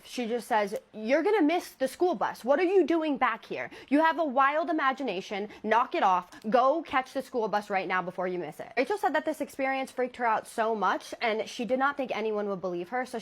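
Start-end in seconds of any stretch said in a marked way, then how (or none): 0.9-8.7 dismissive. Retold or imitated. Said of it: "very dismissive".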